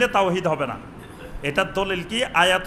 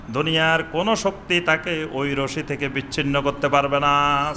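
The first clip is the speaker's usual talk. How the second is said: ordinary talk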